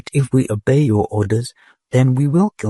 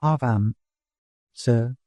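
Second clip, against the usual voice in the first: much higher, slow and shrill; frightened questioning; 7 semitones higher than usual. A narrator's reading. Dodath frightened, questioning the patrol robot. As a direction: press the robot, scared.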